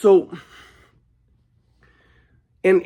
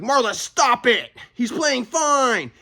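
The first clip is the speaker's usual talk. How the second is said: calm dad; 7 semitones higher, much slower than usual. Retold or imitated. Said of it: "And my dad was like".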